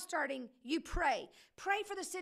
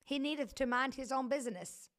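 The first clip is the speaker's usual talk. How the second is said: mock pious prayer; 3 semitones lower than usual. Shown as a demonstration. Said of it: "Pray that your heart".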